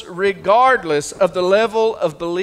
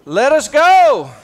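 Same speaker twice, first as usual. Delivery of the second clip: mock plea; 2 semitones higher, 5 dB louder than usual. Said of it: "favorite words for churches".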